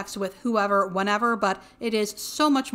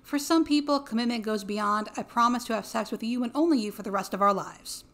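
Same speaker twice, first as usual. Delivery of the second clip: hoarse voice. Real, not acted. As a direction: voice going hoarse. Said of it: "Why am I losing my voice?".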